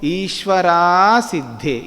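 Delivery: ईश्वरा सिद्धे slowly, every syllable full; teacher models the sutra exactly as written, slowly; pronounced as written. Shown as a demonstration. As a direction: spell out ईश्वरा सिद्धे letter by letter. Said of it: "जैसा लिखा है वैसे बोलो".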